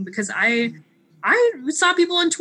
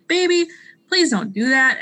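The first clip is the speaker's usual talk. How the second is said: mock pleading; 3 semitones higher than usual. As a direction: gently beg them to stop, hammed-up. Acted plea to vacation posters.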